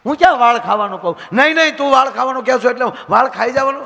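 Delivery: wife begging husband not to shout; loud pleading quarrel. Retold or imitated.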